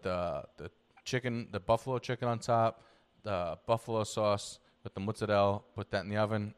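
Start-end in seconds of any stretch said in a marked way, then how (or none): 5.0-5.6 "mozzarella" with an Italian accent, rolled and clipped like "mozzarell"; "mozzarella" in a light Italian accent. Shown as a demonstration. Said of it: "you go throw an Italian accent in there".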